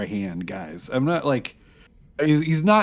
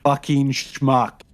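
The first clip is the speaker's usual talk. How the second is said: muttered insult; much slower than usual. Acted. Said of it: "Punchy's gonna rotate his robot body to Hazel and just say".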